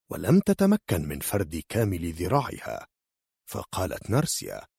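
ordinary delivery

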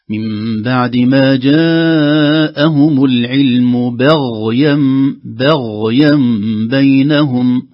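loud drawn-out chant, "بغيا" thin b, dark gh; light bā, heavy ghayn. Shown as a demonstration. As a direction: chant "بغيا" as "be" then thick gh. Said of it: "الغين مفخم". («بغيا» بترقيق الباء وتفخيم الغين)

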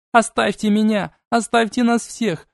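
desperate shouting. Acted. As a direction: shout while held fast. Princess screams while restrained.

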